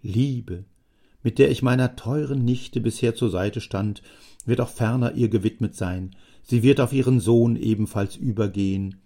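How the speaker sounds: a lightly voiced talkative old man; old Jammer. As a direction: let a chatty old man ramble on fondly. Jammer continues speaking.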